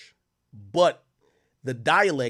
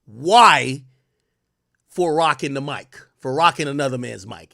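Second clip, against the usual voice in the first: Jamaican patois; 7 dB louder than usual. Shown as a demonstration. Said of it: "In Jamaican terms, you'd be like".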